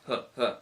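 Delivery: light, soft huffs of easy blocking; imitated effortless grunts. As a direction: huff casually, as if blocking without trying. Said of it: "Like, effortless".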